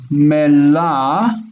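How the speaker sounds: mela drawn out on its final open vowel; open vowel syllables. Shown as a demonstration. Teacher building up the word, mela left open on the vowel. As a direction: stretch the end of mela, leaving it hanging. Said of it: "a vowel".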